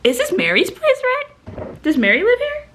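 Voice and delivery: put-on high, silly drunk voice; asking like a dazed drunk; high mock drunk voice. Acting drunk at car window.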